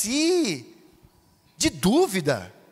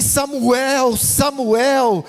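voice of God; much slower than usual. Retold or imitated. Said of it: "a voz é tão forte".

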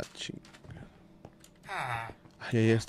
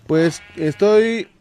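slow drawn-out; 5 semitones higher, 10 dB louder, much slower than usual. Real, not acted. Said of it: "¿Qué estás haciendo?".

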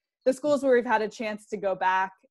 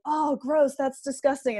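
grossed out; 5 semitones higher than usual. Retold or imitated. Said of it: "they'll always be like".

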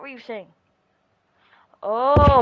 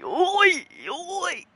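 sing-song taunt; 8 semitones higher, much slower than usual. Real, not acted. Taunting friend after goal.

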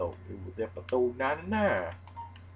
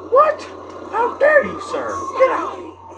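high, loud hammed-up indignant lady; how dare you sir, hammed up and shrill; mock outrage; 9 dB louder, slower than usual. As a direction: play a shocked aristocrat, shrieking. Mock outrage at game character.

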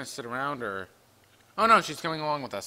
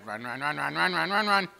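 being chased. Real, not acted. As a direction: run chant rising in panic. Fleeing again.

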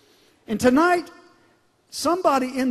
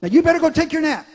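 mock parent; 5 semitones higher, 6 dB louder, much faster than usual.

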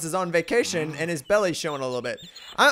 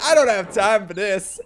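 impatient Gandalf; 4 dB louder than usual. Retold or imitated. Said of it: "Gandalf's like".

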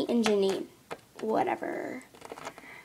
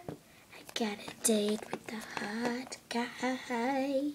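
whispered gossip; 10 dB quieter, slower than usual. Acted. Secret gossip on phone.

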